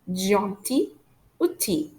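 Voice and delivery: "Gentil" and "outil" ending on "ee"; silent L. Shown as a demonstration. French teacher modelling the rule, silent l in "Gentil" and "outil". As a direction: say "Gentil", "outil" without the final l. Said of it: "we don't pronounce the letter L".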